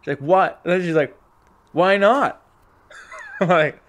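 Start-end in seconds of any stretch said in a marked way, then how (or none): 0.2-0.6 high, loud imitation of an irate woman; mock indignant disbelief. 1.7-2.4 loud, high imitation of an angry woman; mock indignant demand. Acting out the woman demanding why.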